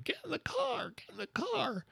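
very high, thin falsetto scream; hammed-up, high-pitched frantic yelling; mock scream. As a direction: scream it in falsetto without full volume. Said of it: "I'm screaming".

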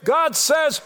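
preaching climax. Acted. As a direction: build to a climax from the pulpit.

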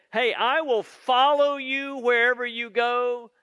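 mildly acted bold pledge; courageous and bold. Peter vowing to follow Jesus, courageous and bold. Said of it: "It sounds courageous and bold".

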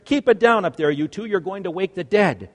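loud, high call up the stairs; mom yelling upstairs. Retold or imitated. Mom yelling up the stairs at noisy dad and child, loud. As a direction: shout them down from below. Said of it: "Mom would yell up the stairs".

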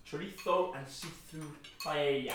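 dish name in a put-on Spanish accent. Shown as a demonstration. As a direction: say it with Spanish lisp and y sound.

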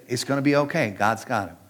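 calm her worry gently; reassuring. Retold or imitated. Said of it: "She said".

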